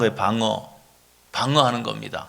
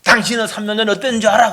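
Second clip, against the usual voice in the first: quick, higher-pitched angry retort; acted counterattack; 4 semitones higher, faster than usual. Defensive spouse dragging up three years ago, acted counterattack. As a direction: fire back defensively, mock quarrel. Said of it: "공격을 하는 겁니다".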